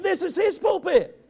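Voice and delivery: "his" lifted high and set against "my"; stress on his. Retold or imitated. Preacher crediting the host pastor, stressing his. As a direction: lean hard on "his" in the pulpit line.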